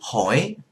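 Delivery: "hỏi" with a question-like lilt. Shown as a demonstration. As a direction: curl "hỏi" upward like asking a question. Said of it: "a question mark".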